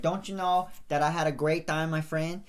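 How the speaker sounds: put-on hosting the outro in a light Canadian accent; lightly put-on Canadian podcast sign-off; mock Canadian outro. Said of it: "do the outro with the accent".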